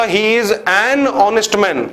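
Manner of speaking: very slow, word by word; slow dictation. Shown as a demonstration. Teacher dictating the correct sentence, very slow. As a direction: spell out the right sentence slowly. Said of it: "मैंने वहीं पर बोला".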